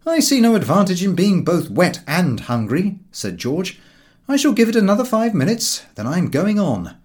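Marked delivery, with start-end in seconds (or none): 0.1-3.0 louder, higher complaint; grumbling George. Acted. George complains to Harris about being wet, louder. 4.3-7.0 loud, high, impatient declaration; impatient George. Acted. George tells his friends he will go on, loud and impatient.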